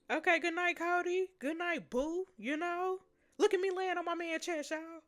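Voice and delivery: giddy gushing. Real, not acted. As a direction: coo goodnight to him. Gushing at bedtime scene.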